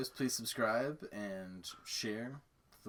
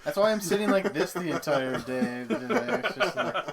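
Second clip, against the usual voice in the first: laughing; 7 semitones higher, 12 dB louder than usual. Real, not acted. Laughing about awkward seating.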